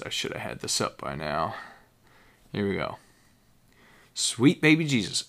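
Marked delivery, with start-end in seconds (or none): 4.1-5.2 high, excited read of a label; reading the beer name with flair. Shown as a demonstration. Reviewer reading the label aloud, excited. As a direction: exclaim the name like a blessing. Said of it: "exclamation point".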